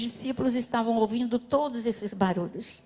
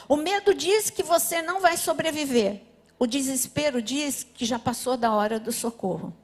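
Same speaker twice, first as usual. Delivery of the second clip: normal talking voice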